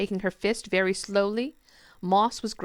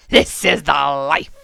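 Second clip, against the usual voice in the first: mouth full; 4 semitones lower, 9 dB louder, slower than usual. Acted. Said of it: "through a mouthful of pig's bladder".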